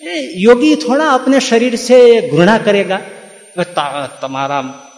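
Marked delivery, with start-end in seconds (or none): 0.0-3.0 slow, higher mock preacher in Hindi; mocking the storytellers. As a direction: parody the pompous storyteller's reading. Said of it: "કહેવાતા બધા કથાકારો અને બધા વ્યાખ્યા કરે ત્યારે શું કરે ખબર છે".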